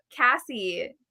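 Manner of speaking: ordinary delivery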